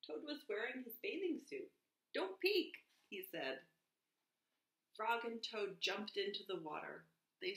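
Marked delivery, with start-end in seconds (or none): 2.1-2.9 high, loud little order; emphatic storybook warning; urgent warning. A narrator's reading. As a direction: pitch it way up and call it out. Toad warns friend not to look.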